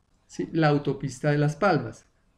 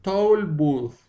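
slow learner echo; slow repetition. Shown as a demonstration. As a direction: Toll booth repeated slowly after the model. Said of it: "Más despacio".

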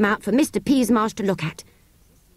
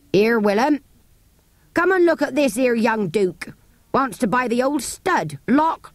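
jeering horse dealer; 3 semitones higher than usual. Acted. Dealer jeers to his ostler.

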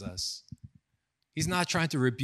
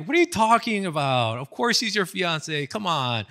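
higher-pitched incredulous retort, retold; mock disbelief; 4 semitones higher, 3 dB louder than usual. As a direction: act out a friend's baffled protest. Retold disbelieving protest to pastor.

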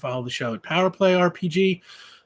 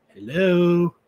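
sharp, raised hello to snap him out of it; impatient clerk; 4 semitones higher, 8 dB louder than usual. Acted. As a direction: call him back to the desk. Clerk prompts distracted man.

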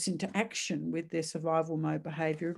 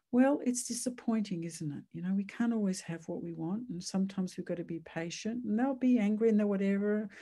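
calm parent voice. Shown as a demonstration. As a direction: settle an upset child gently. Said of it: "just be very calm, not panicky".

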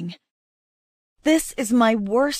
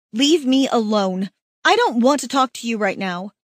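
curt and angry; 4 dB louder than usual. Acted. Brushing off her mate.

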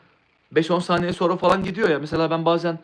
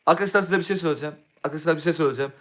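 imitating streamers; much faster than usual. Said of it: "Ya şöyle".

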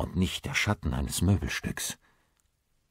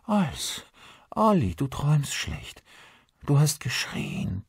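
gentle, a bit worried; 7 semitones higher than usual. A narrator's reading. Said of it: "Caros Stimme sanft, leicht beunruhigt".

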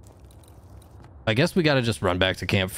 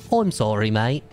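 put-on English accent. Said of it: "I'm English".

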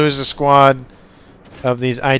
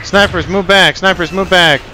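startled, raised urgent warning; alarmed shout; 5 semitones higher, 4 dB louder than usual. Real, not acted. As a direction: sound the alarm. Sudden flank attack in game.

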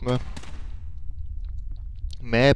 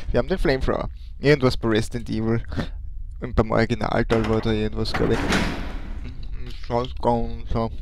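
talking with chocolate in mouth; words round a piece of chocolate; mouth full. Real, not acted. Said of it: "mit vollem Mund spreche". (mit vollem Mund gesprochen)

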